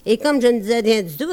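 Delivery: quick patter, tossed away; rattled off fast. Acted. Comic singer rattling off the refrain, fast patter. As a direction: rush through the refrain line.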